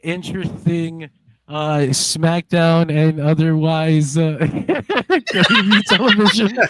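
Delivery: slow, halting sarcasm breaking into a laugh; sarcastic. Real, not acted. Guest signing off with faint praise for SmackDown, sarcastic. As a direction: draw out the insincere praise, then crack up. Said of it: "I hear no sarcasm whatsoever from your voice".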